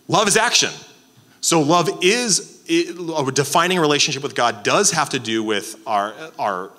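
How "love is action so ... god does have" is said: higher and louder, slowing on love is; emphatic preaching. Real, not acted. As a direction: proclaim it from the pulpit. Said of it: "preacher repeats the line".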